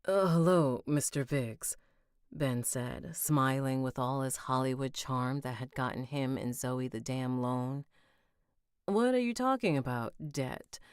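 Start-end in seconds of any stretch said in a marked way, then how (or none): 0.1-1.8 snobby voice. Acted. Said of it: "we gave him a snobby voice". 8.9-10.8 snobby voice. Acted. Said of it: "we gave him a snobby voice".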